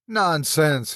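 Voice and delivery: a mild rough snap; rough dismissal. Acted. Meagle dismissing Lester's fear, mildly rough. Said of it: "he said roughly".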